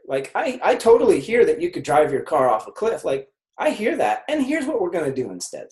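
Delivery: calmly steer them away from the cliff; gentle but firm redirection; patient firm guidance. Shown as a demonstration. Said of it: "It's this tone of like".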